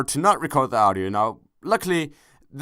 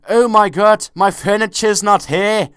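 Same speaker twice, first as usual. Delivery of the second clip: loud, high mock panic; 8 semitones higher, 8 dB louder than usual. TV emigrants wailing over lost furniture, mock panic. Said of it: "they're like".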